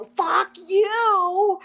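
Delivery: high, loud blurt of pain and anger; retold curse at the tattoo artist; sudden outburst. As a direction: snap it out without thinking. Out of nowhere.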